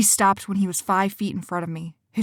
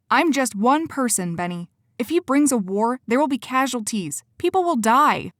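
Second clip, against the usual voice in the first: higher, louder, pressing harder; urgent pleading; 5 semitones higher, 3 dB louder than usual. Acted. Cora argues with Benny she must surrender, urgent. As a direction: plead so he understands.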